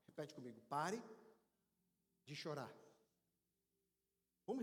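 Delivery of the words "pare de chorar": feed it out in two measured pieces; solemn prompt. Shown as a demonstration. Preacher has congregation repeat with him, solemn and low. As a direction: lead word, pause, low soft finish.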